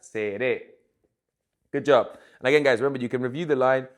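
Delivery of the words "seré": "Seré" slowly, stress on the last é; stressed final syllable. Shown as a demonstration. Teacher has students practise Seré, stressing the final é. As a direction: model "Seré" with weight on its final é. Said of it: "Practice that".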